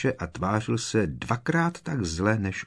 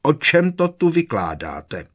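loud, higher booming demand; thundering; 8 semitones higher, 6 dB louder than usual. Acted. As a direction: boom the question. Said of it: "hřímal Snape".

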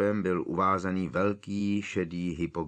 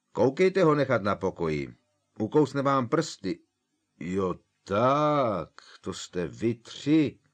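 louder, higher gruff giant warning; Hagrid's voice; 5 semitones higher, 5 dB louder than usual. A narrator's reading. Hagrid warns the trio away from Buckbeak, loud. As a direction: warn them off like big Hagrid.

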